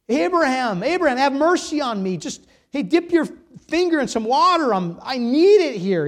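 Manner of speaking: high, loud plea for mercy; crying out. Retold or imitated. Preacher as tormented rich man begging Abraham, crying out. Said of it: "he cried out".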